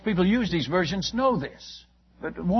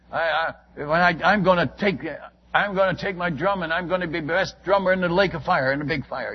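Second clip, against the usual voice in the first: retold cocky brag, mildly raised; arrogant boast. Headhunter brags to the missionary about his drumming, mildly arrogant. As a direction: imitate a defiant man boasting. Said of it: "I mean, arrogant".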